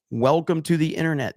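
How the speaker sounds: deadpan; stress on to. Shown as a demonstration. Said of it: "repeated line".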